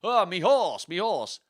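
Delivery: hammed-up cry with a touch of Welsh; put-on regional accent. Richard calling for his horse, hammed-up Welsh-tinged accent. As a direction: cry out theatrically, then settle. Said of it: "A bit of Welsh or".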